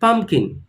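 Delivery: pumpkin, PUMP stressed; teacher leads repetition of pumpkin; repeat with me. Shown as a demonstration. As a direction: say pumpkin for the class to echo. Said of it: "repeat once more with me".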